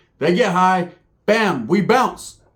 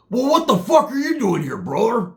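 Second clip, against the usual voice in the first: high Roach greeting; 6 semitones higher than usual. Retold or imitated. Roach spotting the narrator at the liquor store, high surprised greeting. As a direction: greet your buddy high and loose. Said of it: "guess who's there".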